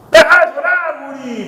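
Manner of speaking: high, loud hammed-up parent's yell; mock angry yell. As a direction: bark it at the crying kid in jest. Mock parent yelling at crying child.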